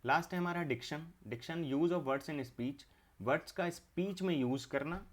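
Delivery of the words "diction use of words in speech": very slow, word by word; slow dictation. Shown as a demonstration. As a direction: spell it out slowly for the class. Teacher dictating syllabus definition.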